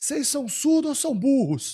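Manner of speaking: acted very high street vendor's holler. Retelling what the corn seller yelled when nobody bought: imitating a vendor yelling. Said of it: "Aí o que que ele gritou?".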